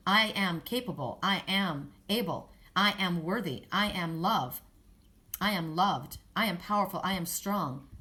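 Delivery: firm declared affirmations, each one landed; deliberate empowering mantra. Acted. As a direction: state each affirmation with conviction. Spoken self-affirmations.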